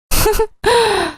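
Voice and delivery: a high, sharp mocking laugh; one short contemptuous laugh; scornful laugh. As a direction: laugh in his face. Mocking the fiancé's true colors.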